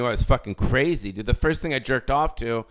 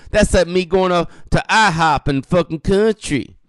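loud, higher redneck rant; hillbilly impression; 7 semitones higher, 5 dB louder than usual. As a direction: ham up a yokel ranting at his phone. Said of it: "other fucking hillbillies ... go".

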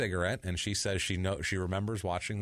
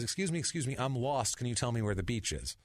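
mock lost stranger; 4 semitones higher than usual. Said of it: "he says".

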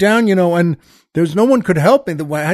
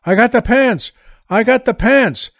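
mock scream; 3 semitones higher than usual. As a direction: call it out, higher, half-yelled. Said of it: "you're not supposed to scream anything".

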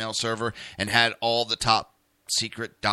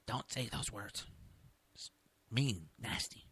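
mom scolding; 2 semitones lower, 14 dB quieter than usual. Retold or imitated. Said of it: "my mom's always yelling at me".

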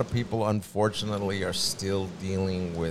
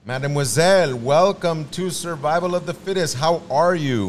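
French accent; 6 semitones higher, 6 dB louder than usual. Shown as a demonstration. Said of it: "That's my French for today".

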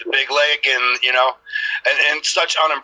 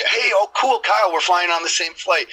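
high-pitched mock fan enthusiasm; higher, gushing imitation; imitated excited fan; 6 semitones higher than usual. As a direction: mimic a fan thrilled to spot you. Imitating excited fans approaching him.

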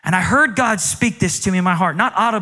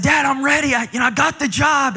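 put-on higher, eager boyish plea; eager excitement; 8 semitones higher than usual. Son telling his dad he got the job, eager and high. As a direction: bounce in like a kid with news.

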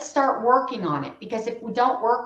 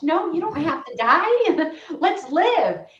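excited reassurance; 6 semitones higher, 4 dB louder, slower than usual. Retold or imitated. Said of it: "I'm like, "Oh my gosh".

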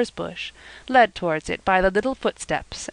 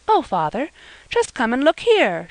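surprised call, higher and a little louder; exclaiming; 6 semitones higher, 3 dB louder than usual. A narrator's reading. Eppie startled at the pit, calling Silas in surprise. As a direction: call him over, startled. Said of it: "she exclaimed".

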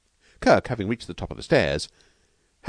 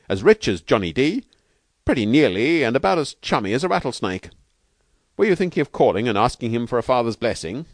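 slangy trainer, louder and higher; emphatic Steve; 6 semitones higher, 5 dB louder than usual. Acted. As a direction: warn him frankly, with gusto. Narrator voices Steve.

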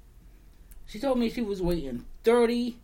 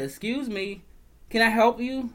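retold sharp excuse me; 4 semitones higher than usual. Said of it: "I told her".

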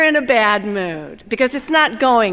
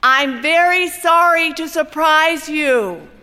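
slow, higher, a touch louder, as if through a window; loudly, through glass; 5 semitones higher, slower than usual. Acted. Foreman calling through the window glass, mildly raised and slow. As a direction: call it out slowly so it carries through the pane. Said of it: "He says loudly so you can hear him through the glass".

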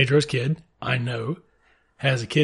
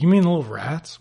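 higher, louder incredulous question; mock disbelief; 5 semitones higher, 4 dB louder than usual. Everybody questions the chinchilla farm plan, mock disbelief. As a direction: balk at the idea in playful disbelief. Acted incredulous reply of the crowd.

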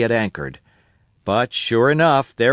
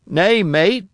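put-on a higher, eager old sailor voice; old castaway Ben Gunn; 6 semitones higher, 3 dB louder than usual. Old castaway telling Jim about Flint, eager and higher. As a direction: spin the tale of Flint like a wild old castaway.

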